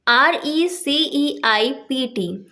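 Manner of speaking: letters one by one, slowly; spelling out letters. Shown as a demonstration. Teacher spelling the word for students, slow. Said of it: "next word है रिसीट".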